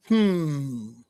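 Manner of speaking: a short, interested hum through closed lips; audible hmm. Retold or imitated. Girl in coffee line noticing him, audible hmm. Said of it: "does an audible".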